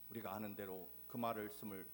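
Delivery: ordinary talk, nothing marked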